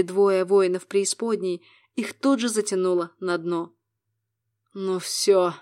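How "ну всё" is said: seething, about to explode; enraged. A narrator's reading. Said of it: "рассвирепел Абегор". (в ярости)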